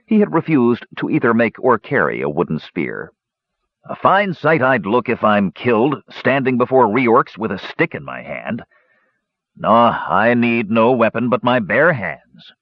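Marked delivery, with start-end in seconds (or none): 3.9-12.5 snarling dwarf. Acted. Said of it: "the dwarf had snarled".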